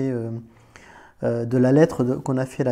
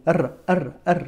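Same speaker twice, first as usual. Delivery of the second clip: donkey driver's call; 3 semitones higher than usual. Retold or imitated. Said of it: "pour le faire avancer au bled".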